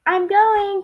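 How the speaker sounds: high, loud call back. A narrator's reading. Franklin calls back to his mother, calling out. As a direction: call it out on the way to the door. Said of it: "called Franklin".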